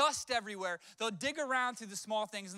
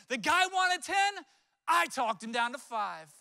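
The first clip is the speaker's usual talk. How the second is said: proud boast; 2 semitones higher, 5 dB louder, slower than usual. Retold or imitated. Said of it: "He was super proud".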